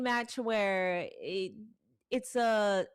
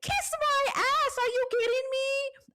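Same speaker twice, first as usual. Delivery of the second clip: defiant retort; 12 semitones higher, 5 dB louder than usual. Retold or imitated. Telling a YouTube commenter off, loud and defiant. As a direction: throw the comeback right back at him. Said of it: "I was like".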